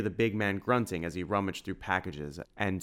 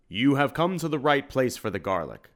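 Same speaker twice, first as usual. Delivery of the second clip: laughing; 6 semitones higher, 5 dB louder than usual. A narrator's reading. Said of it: "laughed Edward Farquhar".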